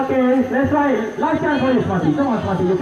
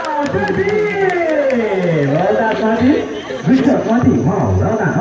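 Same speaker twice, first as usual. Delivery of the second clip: excited cheering; 6 dB louder than usual. Real, not acted. Animal counts to thirteen, cheering.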